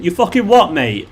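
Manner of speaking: a hammed-up British challenge. Shown as a demonstration. Showing viewers the most British phrase, mock confrontational. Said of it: "that's the most British thing you say".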